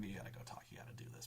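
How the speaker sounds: hushed whisper, egging a friend on; whispered urging. Retold or imitated. Friend secretly pushing him to speak up, whispered urging. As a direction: breathe it like a sneaky nudge.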